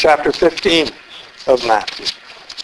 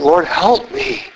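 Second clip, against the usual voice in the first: pleading; 3 semitones higher, slower than usual. Retold or imitated. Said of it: "began to bow down before him".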